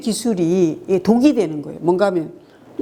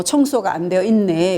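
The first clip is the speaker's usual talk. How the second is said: gentle. Shown as a demonstration. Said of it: "좀 부드럽게 말하고".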